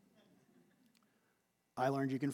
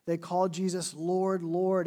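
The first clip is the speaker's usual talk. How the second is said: "Lord, Lord" with the second "Lord" louder; emphatic double title; 3 semitones higher, 4 dB louder than usual. Shown as a demonstration. Crowd addressing Jesus with an emphatic doubled "Lord". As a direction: press on the repeated "Lord". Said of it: "It was an emphatic title".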